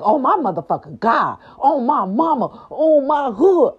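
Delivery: mock starstruck exclamation; thrilled gushing. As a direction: gush like you just got blessed. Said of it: "I'm like".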